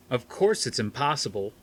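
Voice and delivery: tired of explaining; a touch of exasperation; exasperated. Acted. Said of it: "Norton sounded exasperated".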